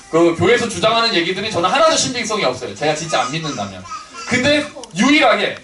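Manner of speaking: ordinary delivery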